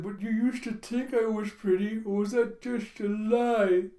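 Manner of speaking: a hint of a wounded Yor pleading; Yor's voice. Yor asking her husband if she was ever pretty, lightly voiced and hurt. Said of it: "And Yor's like".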